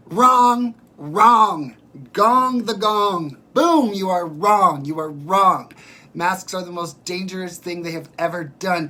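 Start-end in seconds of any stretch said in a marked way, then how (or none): 0.1-1.8 loud, high shouted wrong; loud playful wrong-answer call; mock buzzer shout. 2.1-5.7 loud, slow, booming verdict; hammed-up loud pronouncement; mock gong verdict. Mock game-show verdict.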